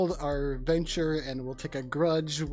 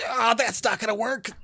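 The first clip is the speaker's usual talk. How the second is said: higher, louder in-character dismissal; exasperated; 7 semitones higher, 3 dB louder than usual. Acted. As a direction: give up on it with mild exasperation. Voicing the character's reaction.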